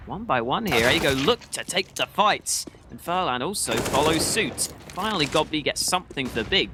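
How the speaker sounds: excited play-by-play call; esports caster. Acted. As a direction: call the AWP fight live. Live play-by-play casting.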